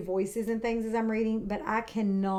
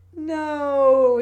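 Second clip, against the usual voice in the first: reassuring mum; 5 semitones higher, 10 dB louder than usual. Acted. Mummy Pig reassures.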